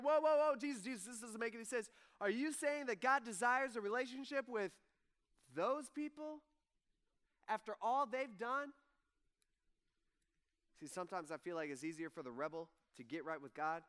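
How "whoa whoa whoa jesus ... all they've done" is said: indignant disbelief. Retold or imitated. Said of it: "They're like".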